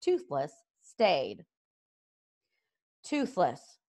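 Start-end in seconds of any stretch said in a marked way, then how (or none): 3.0-3.8 measured, restrained address; forced reasonableness. A narrator's reading. Hiccup trying to reason with his dragon, restrained calm. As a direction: keep it reasonable, just about. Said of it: "said Hiccup as reasonably as he could".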